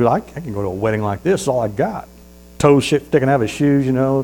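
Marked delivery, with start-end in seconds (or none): 0.1-2.1 beggar. Acted. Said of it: "He goes".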